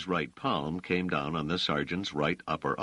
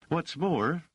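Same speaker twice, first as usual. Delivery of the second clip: higher, sharp irritated interjection; 12 semitones higher than usual. A narrator's reading. Dors cuts in irritated at the sergeant. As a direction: cut in, clearly irritated. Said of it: "said Dors with clear irritation".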